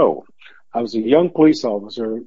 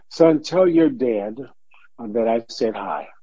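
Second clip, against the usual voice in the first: tender hushed message. Retold or imitated. Paige's tender farewell message.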